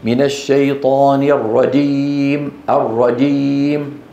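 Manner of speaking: الرجيم with j made at the tongue tip; slow recitation, الرجيم sounding nearly like radim; jim like dal. Retold or imitated. Teacher imitates a misplaced jim, close to dal. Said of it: "بينطقها من طرف اللسان".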